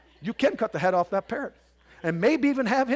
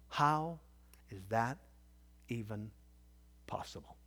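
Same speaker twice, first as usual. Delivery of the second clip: fading to a whisper; 10 semitones lower, 12 dB quieter than usual. Real, not acted. Preacher's incredulous question trailing off.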